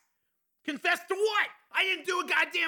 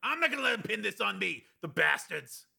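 high, strained shout held down in volume; angry shout; 8 semitones higher, 3 dB quieter than usual. A narrator's reading. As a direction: protest furiously, pitched well up. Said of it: "he shouted".

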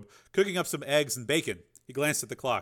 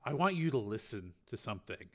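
low menacing mob boss; 4 semitones lower, 7 dB quieter than usual. Acted. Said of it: "Borodini said".

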